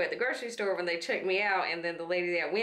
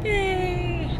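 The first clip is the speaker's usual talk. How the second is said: excited; 13 semitones higher than usual. Real, not acted. Mock cheer.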